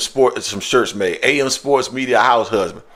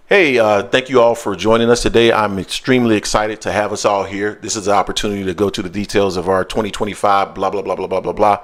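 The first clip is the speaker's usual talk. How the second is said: mild corporate meeting voice; corporate presenter voice; 4 semitones lower than usual. Shown as a demonstration. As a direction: open an earnings call politely. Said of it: "I'm gonna be like this".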